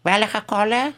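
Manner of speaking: put-on heavy Eastern European accent; Russian character voice. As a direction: play the old Russian grandmother offering a lollipop. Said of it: "whenever Rabbi Erbs impersonates a Russian".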